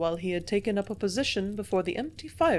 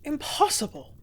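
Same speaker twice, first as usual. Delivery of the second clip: disbelief; 7 semitones higher than usual. A narrator's reading. Shocked at murder news.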